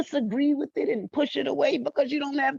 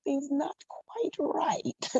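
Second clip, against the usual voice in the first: mock suspicious; 4 semitones higher, 5 dB quieter, slower than usual. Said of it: "that emoji where they got their finger".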